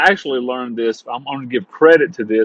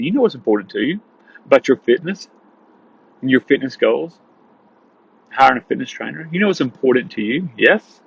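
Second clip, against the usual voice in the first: slow empathetic question. Shown as a demonstration. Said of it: "this isn't something you say quickly".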